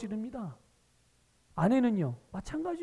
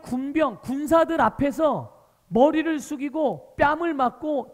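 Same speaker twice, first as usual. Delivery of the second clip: preaching at full force; 3 semitones higher, 6 dB louder than usual. Acted. Preacher to congregation, loud fervent preaching. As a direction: preach it big and heavy to the whole congregation. Preacher proclaims Christ's lordship.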